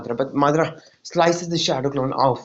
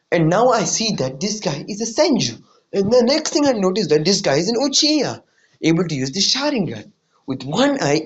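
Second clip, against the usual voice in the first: Madara's inner rant; 4 semitones higher than usual. Retold or imitated. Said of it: "this is what is going on in Madara's mind".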